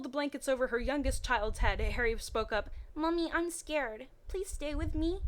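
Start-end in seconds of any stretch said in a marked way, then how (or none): 2.9-5.2 put-on a little boy begging his mummy to stay; scared little boy. A narrator's reading. Harry the small child speaks.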